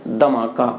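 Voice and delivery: धमाका with plain d and low pitch; Haryanvi धमाका. Shown as a demonstration. Teacher showing the Haryana form, धमाका low. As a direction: say धमाका without the breathy dh, low. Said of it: "वहाँ उच्चारण क्या है?".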